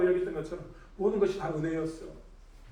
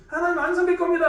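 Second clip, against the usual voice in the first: defiant assertion; 9 semitones higher, 7 dB louder than usual. Acted. 사단의 주장을 재연.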